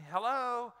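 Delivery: bright, friendly answering of the phone; cheerful phone hello. Shown as a demonstration. Pastor picking up the principal's call, casual and cheerful. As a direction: greet the caller as if nothing's wrong. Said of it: "this is how".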